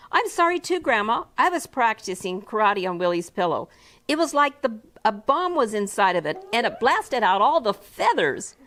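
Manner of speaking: put-on little kid confessing sheepishly; child voice, sorry. Second child apologizing.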